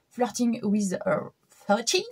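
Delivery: slow, self-mocking English accent on Flirting with a thirty; a playful try at English pronunciation, deliberately slow; French-accented English. Shown as a demonstration. Reading an English book title to viewers, mock English accent. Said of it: "avec mon super accent anglais".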